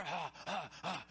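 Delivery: short mock battle huffs; imitated pump-up grunts. Preacher mimicking players going out there, pumped-up huffs. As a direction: huff like players getting fired up.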